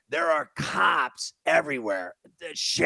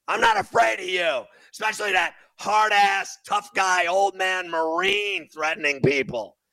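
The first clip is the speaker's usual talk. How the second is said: raised, defiant shout, a little higher; angry shout; 4 semitones higher, 3 dB louder than usual. Real, not acted. Host yelling back at the threatening Marine, angry shout. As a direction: yell it straight at them, unafraid. Host ranting at hostile crowd.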